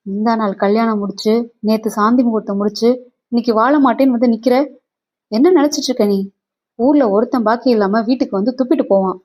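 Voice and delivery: mildly heated parental rebuke; angry father's scolding. Acted. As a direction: scold the daughter with rising indignation. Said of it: "அப்பா என்னை முறைத்தார்". (கோபமாகக் கண்டிக்கும் அப்பா)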